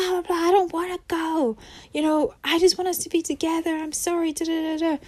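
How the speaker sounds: lightly voiced begging ex; imitating a desperate partner begging; mock pleading partner. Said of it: "your partner is screaming at you".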